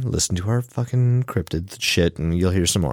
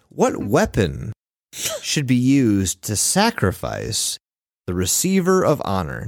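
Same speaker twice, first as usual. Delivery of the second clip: slow ominous reading. Shown as a demonstration. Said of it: "reading the creepy poll question".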